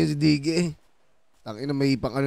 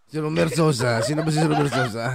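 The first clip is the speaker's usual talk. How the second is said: laughing. Real, not acted. Laughing at friend's name.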